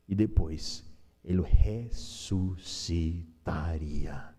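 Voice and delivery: slow, breathy hushed whisper. Acted. Pastor whispers the promise to the congregation, hushed. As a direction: drop to a secret whisper.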